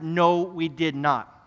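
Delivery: slow, firm denial with rising temper; restrained anger. Retold or imitated. Youth pastor getting upset at a pushy student, slow firm denial. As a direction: hold back the anger, slowly. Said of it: "my blood started to rise".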